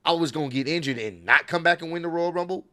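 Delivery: imitating a cocky, mocking taunt at the crowd; mock the doubters like a smug heel; a hammed-up smug wrestling villain gloating. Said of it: "she's kinda playing up the heat".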